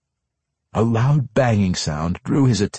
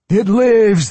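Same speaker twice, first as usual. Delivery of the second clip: high loud gloating monster; elated; 12 semitones higher, 7 dB louder than usual. A narrator's reading. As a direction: crow it with cruel delight. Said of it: "clearly elated".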